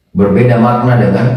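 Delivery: ordinary talk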